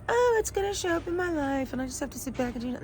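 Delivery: high, quick, airheaded mimicry; mock naivety. Mocking passive believers in an acted quote.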